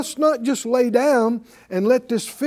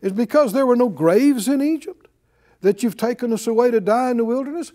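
mock sarcastic complaint, rising at the end; sarcasm; 3 semitones higher than usual. Preacher voices Israelites' complaint, mildly sarcastic. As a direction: imitate grumblers with a rhetorical question. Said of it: "Sarcasm is what that is".

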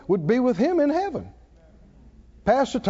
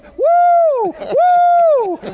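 high, loud whooping cries; shouted woo, woo, woo; imitated whoops; 9 dB louder, much slower than usual. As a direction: whoop it out like the preacher did. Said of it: "and he goes".

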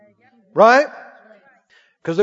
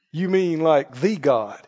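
incredulous question; 6 semitones lower, 5 dB quieter, slower than usual. Acted. Questioner acts disbelieving.

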